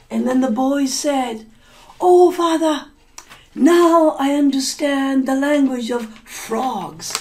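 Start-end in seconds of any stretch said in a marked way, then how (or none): 2.0-7.1 eager son. Acted. Son proudly reports his learning.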